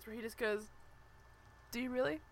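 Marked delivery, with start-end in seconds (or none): 1.7-2.2 understated, deadpan question. Retold or imitated. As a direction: lightly imitate a coolly unbothered man. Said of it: "like, C T voice".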